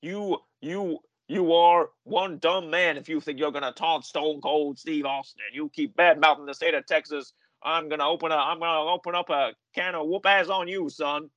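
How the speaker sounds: mock tough Texan threat, hammed up; Stone Cold impression. Stone Cold taunting Kevin Owens from the desert, lightly voiced menace. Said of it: "He gets out and he goes".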